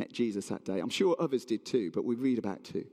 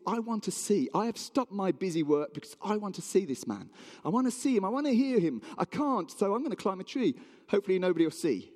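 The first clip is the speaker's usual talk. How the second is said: higher-pitched, insistent self-talk; a touch of acted determination, pitch lifted; mildly eager; 5 semitones higher than usual. Zacchaeus longing to see Jesus, mildly eager.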